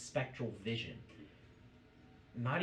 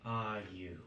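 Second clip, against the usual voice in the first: loud, stretched first word, then easing; lightly voiced imperious demand; commanding spectral figure; 5 dB louder, much slower than usual. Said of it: "And she just goes".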